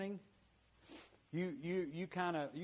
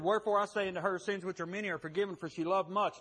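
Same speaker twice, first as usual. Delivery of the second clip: quoting scripture; 4 semitones higher, 4 dB louder, faster than usual. Retold or imitated. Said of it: "He said".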